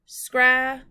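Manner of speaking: "Scrabble" in two loud, separated beats; syllable by syllable. Shown as a demonstration. Teacher tapping out syllables for pupils, "Scrabble" split syllable by syllable. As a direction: break "Scrabble" in two with a clear pause between syllables. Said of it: "Let's tap out the syllables".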